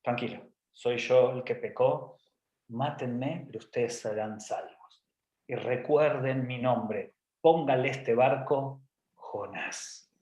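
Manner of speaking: slow, low solemn Jonah; soft, drawn-out noble self-sacrifice; Jonah's solemn resignation. Acted. Jonah to the sailors, offering himself, solemn and resigned.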